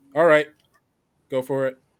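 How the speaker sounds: loud, disembodied calling voice. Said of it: "a disembodied sound of someone's voice going".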